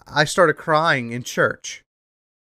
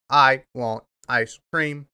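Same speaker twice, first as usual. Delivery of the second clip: slow, flat speech-machine voice; robot voice; 2 semitones higher, slower than usual. Retold or imitated. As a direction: imitate a text-to-speech device, slowly. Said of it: "I just sound like the SpongeBob robot".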